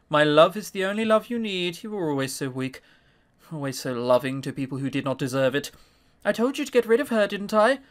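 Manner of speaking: a hint of a cold, clinging mother; possessive mother.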